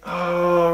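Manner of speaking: long, level groan of "oh"; mock-weary drawn-out groan; exasperated groan. Exasperated reaction to the reply.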